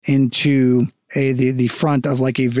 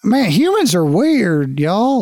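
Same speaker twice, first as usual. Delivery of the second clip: guard; 6 semitones higher, slower than usual. Acted. Guard remarks on the party.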